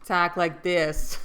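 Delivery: badly faked Massachusetts drawl; mock Massachusetts accent. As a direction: put on a hammed-up Massachusetts accent. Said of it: "I can't do a Massachusetts accent".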